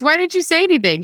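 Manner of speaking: high incredulous question. Retold or imitated. Daughter asking mom, high incredulous question. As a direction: demand an answer, bewildered.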